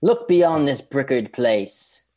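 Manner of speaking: slow, drawn-out archaic declamation; mock old English. Co-host riffing on a made-up old phrase, mock old English. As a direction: intone it like old-fashioned verse. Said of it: "some old English".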